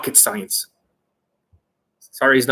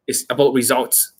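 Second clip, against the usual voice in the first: ordinary delivery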